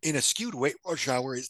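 coughing through a catch in the throat; choking on something. Real, not acted. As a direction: talk while choking a little. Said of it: "I'm choking on something".

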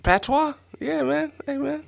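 put-on high, soft Jamaican Patois accent. Co-host suggesting a sexy language, high Patois impression. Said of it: "that's broken English".

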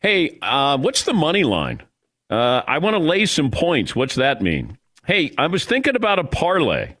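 hesitant mock questions from a betting novice; novice bettor. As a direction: play a hint of a first-time bettor asking. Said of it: "I don't expect bettors to walk into a sports book".

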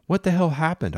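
captain bellowing at the wrong course. A narrator's reading. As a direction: roar it out in anger at the helm. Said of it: "I bellowed".

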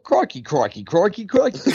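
one word strung into a sentence, breaking into laughter; joking repeated crikey. Shown as a demonstration. Teasing that crikey alone makes a sentence, laughing. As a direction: rattle it off as if it were speech. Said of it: "If you could just say crikey in a complete sentence".

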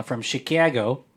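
Chicago said as "shih-KA-go" in a Chicago accent. Shown as a demonstration. Host shows listeners a Chicago accent. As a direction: flatten "Chicago" the Chicago way. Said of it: "That's how you say Chicago in a Chicago accent".

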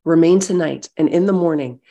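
measured reading of Ruth, steady and clear; scripture reading. Acted. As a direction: read the chapter straight through, letting it land. Reads Ruth chapter aloud.

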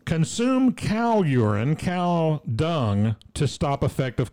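put-on slow, lightly Indian-accented headline read. Host reads news headline in a light Indian accent. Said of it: "I don't do an Indian accent".

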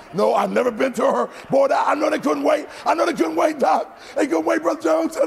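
high, excited shouting; hammed-up indignant outburst; comic flustered protest. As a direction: raise the pitch in mock panic. Comic panic before onlookers.

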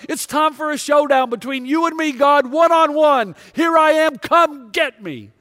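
defiant yelling. Retold or imitated. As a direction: taunt the heavens like a broken soldier. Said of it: "And he yells".

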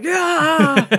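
loud, high drawn-out yell; battle cry. Acted. Player aims gun at the roof, rallying battle yell. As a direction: roar it out at the roof. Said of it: "and be like".

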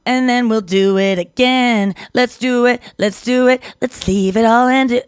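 slow, drawn-out mock ad-libs; imitating a singer's background lines. A singer's odd background lines, mock ad-lib voice. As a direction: toss off lazy background ad-libs. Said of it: "saying weird things in the background".

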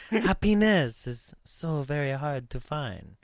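put-on slow, breathy French-accented line. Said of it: "one more time".

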